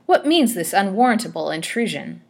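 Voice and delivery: loud, indignant demand; affronted, forceful question; angry. A narrator's reading. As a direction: demand an explanation in outrage. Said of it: "she cried angrily".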